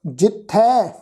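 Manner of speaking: ਜਿੱਥੈ with an open "ai" after the th; dulavan vowel. Shown as a demonstration. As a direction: end ਜਿੱਥੈ on a clear open ai. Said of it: "ਥੱਥੇ ਤੇ ਦੁਲਾਵਾਂ ਦਾ ਪਾਠ ਹੈ ਜੀ". (ਜਿੱਥੈ, ਥੱਥੇ ਤੇ ਦੁਲਾਵਾਂ ਨਾਲ)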